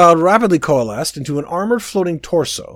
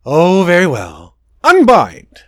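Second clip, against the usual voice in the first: high, whiny royal voice; a spoiled prince defending himself; petulant prince; 4 semitones higher, 8 dB louder, slower than usual. Acted. Prince casting.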